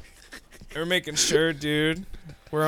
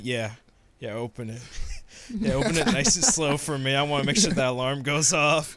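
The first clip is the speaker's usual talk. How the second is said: low mock fire marshal; 3 semitones lower than usual. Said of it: "Fire marshal grabs the store manager".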